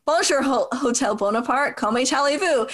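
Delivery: put-on schoolgirl French with an American accent; halting beginner's French, American accent; foreign accent in French. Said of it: "tries to speak French".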